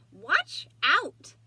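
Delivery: sharp, loud warning cry. A narrator's reading. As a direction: warn them before it's too late. Eugenia warns.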